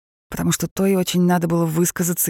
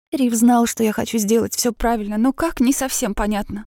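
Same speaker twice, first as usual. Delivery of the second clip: high, loud nonstop chatter; rattling on; 6 semitones higher, 3 dB louder than usual. A narrator's reading. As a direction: pour it out in one breath. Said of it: "тараторила сестра".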